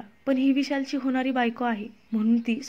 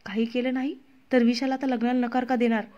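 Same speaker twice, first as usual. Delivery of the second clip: irritated. Acted. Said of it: "प्रियानं आता चिडून विचारलं".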